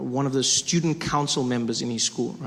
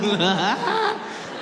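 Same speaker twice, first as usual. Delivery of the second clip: high, put-on chuckle; knowing fake laugh; 7 semitones higher than usual. Son nudging mother to agree, put-on knowing laugh. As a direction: laugh as if sharing an obvious secret.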